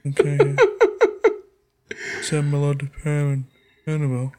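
imitated phone sign-off. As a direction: murmur a put-on phone goodbye. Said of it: "that's how we talk back and forth".

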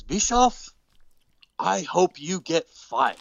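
slow, halting broken English; mock broken English. Tajiri telling Bischoff off, slow broken English. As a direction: spell out each word slowly in broken English. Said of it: "imitate his broken English".

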